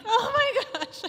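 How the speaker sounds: high, laughing oh my gosh; startled laughing cry; shocked gasp of a mom. Retold or imitated. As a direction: yelp it as you catch the kids mid-mischief. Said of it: "and I'm like".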